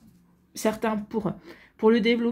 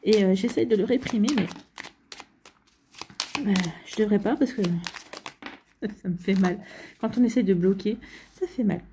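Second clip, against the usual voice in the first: holding back hiccups. Real, not acted. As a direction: hiccups breaking the words. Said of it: "j'ai le hoquet comme d'hab".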